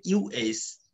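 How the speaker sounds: ইউএইচ as a loose unstressed uh; relaxed schwa. Shown as a demonstration. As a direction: let ইউএইচ fall out relaxed. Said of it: "একদম relax". (Relaxed শুয়া)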